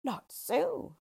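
high-pitched dwarf retort; high, emphatic villain voice; gloating dwarf. A narrator's reading. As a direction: contradict as a little villain. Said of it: "replied the yellow dwarf".

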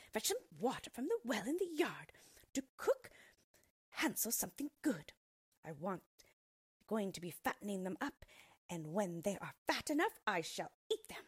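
put-on high, cackly old witch giving orders; a wicked witch gloating over her meal; greedy witch. Witch speaks to Gretel.

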